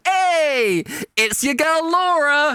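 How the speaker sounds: high, slow, gushing hello to the crowd; overly chirpy performer voice; bubbly stage greeting. Retold or imitated. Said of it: "she's not going out going".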